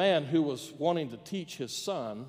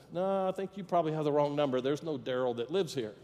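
easygoing, mildly polite phone reply; lightly acted courtesy, quick start. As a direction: politely put a wrong-number caller right. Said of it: "very politely said".

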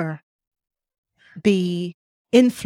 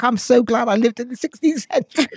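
laughing mock quote; 3 semitones higher than usual. Imagined 16th-century people speaking.

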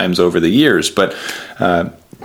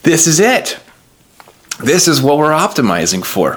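higher, overcome with feeling, halting pauses; moved realization; 6 semitones higher than usual. Retold or imitated. Father moved by his daughter's love, heartfelt and higher. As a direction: let each phrase land as a heartfelt revelation.

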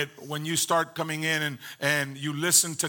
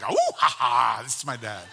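imitating his dad; 4 semitones lower, 4 dB louder than usual. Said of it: "I just feel like my dad right now".

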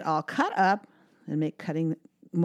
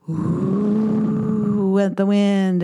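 howling like wind; 3 semitones higher, 5 dB louder, much slower than usual. Shown as a demonstration. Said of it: "make a wind sound".

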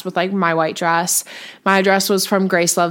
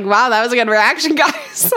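laughing; 3 semitones higher than usual. Retold or imitated. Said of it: "I was like".

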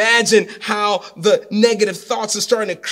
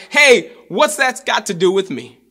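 mock brush-off, higher and louder; blunt dismissive prophet; 4 semitones higher, 4 dB louder than usual. Preacher paraphrases Elisha to the widow, mock dismissive. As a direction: toss it back at her like it's not your problem. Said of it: "in regular vernacular".

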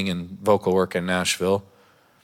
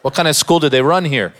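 mock disbelief; 4 semitones higher, 4 dB louder than usual. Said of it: "I'm like".

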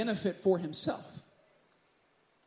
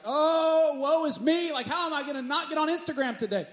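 higher, whiny mock lament; dramatic sigh; 5 semitones higher than usual. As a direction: ham up the suffering over nothing. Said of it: "and I'll be like".

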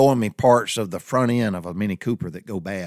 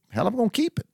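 defiant; faster than usual. Retold or imitated. Defiant reply to shop owner.

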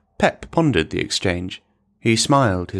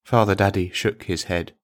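plain reading voice

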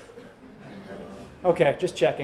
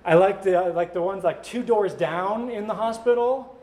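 lightly voiced unhappy infant. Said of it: "someone being like".

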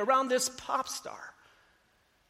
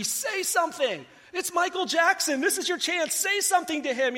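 higher, urgent inner voice pushing himself; mock-frantic self-urging, pitched higher; inner voice screaming; 5 semitones higher than usual. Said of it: "My inner voice is screaming at me".

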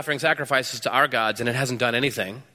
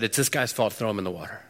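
mock blaming Jesus; 6 semitones lower, 5 dB quieter than usual. Imagined Jesus blaming one.

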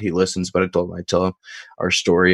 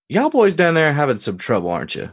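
put-on higher-pitched Deep South country accent; Jerome's Deep South accent; 7 semitones higher than usual. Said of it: "Just think, just think Deep South".

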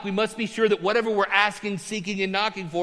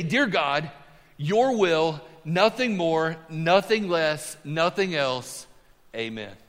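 reverent prayer; 2 semitones lower, slower than usual. Shown as a demonstration. Pastor voicing Bobby Richardson's humble prayer, slow and hushed. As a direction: pray it humbly, letting each phrase settle. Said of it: "This is what he used to pray".

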